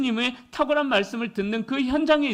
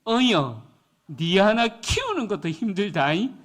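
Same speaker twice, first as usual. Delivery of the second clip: Gyeongsang husband. Retold or imitated. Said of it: "남편이 어떻게 이야기하냐면".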